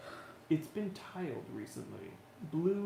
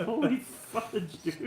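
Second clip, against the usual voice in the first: surprised; 6 semitones higher, much slower than usual. Retold or imitated. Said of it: "I was like".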